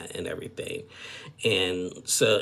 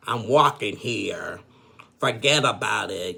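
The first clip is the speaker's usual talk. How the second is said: imitated New York accent, punched louder; 6 dB louder than usual. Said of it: "teaching Joan some New York accents".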